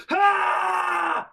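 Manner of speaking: huge, high anime power-up yell; imitated battle shout. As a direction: scream like a Super Saiyan charging. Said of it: "then the other one will go".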